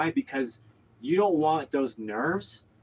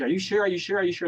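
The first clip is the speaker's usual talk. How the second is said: high, anxious rapid-fire questioning; retold fretful pestering; stressed; 6 semitones higher, faster than usual. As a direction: imitate someone stressed, repeating it in a higher voice. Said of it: "just dazed and stressed".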